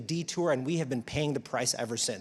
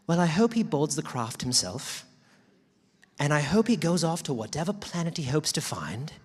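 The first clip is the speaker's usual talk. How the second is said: emphatic, raised-pitch quote of a fed-up reply; retold outburst; 4 semitones higher, 4 dB louder than usual. Quoting Jane Goodall's answer to the interviewer, emphatic and fed up. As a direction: quote her loudly, landing hard on the final words. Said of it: "this was her response verbatim. She goes".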